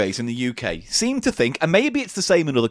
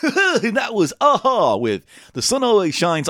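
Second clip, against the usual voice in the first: a light, cheesy radio DJ voice, a bit higher and upbeat; back-announce a record like an eighties DJ; Steve Wright DJ accent; 5 semitones higher than usual. Pretend. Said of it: "and I'll be Steve Wright".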